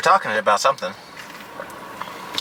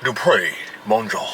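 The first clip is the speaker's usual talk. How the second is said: put-on playful French accent on the name; much slower than usual. Husband joking about his name to wife, French accent. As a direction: say Dupre as if in French. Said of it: "Yeah, it's a French accent".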